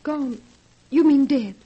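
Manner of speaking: the word dead jolts out of her; shocked disbelief. Acted. Shocked guest hears of death.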